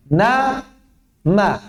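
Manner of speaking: nun and mim voiced clearly, Na then ma; pronounced na ma. Shown as a demonstration. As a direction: say Na, ma with the n and m sounded first. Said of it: "Kita analogikan". (ucapkan Na, ma dengan dengung di n dan m)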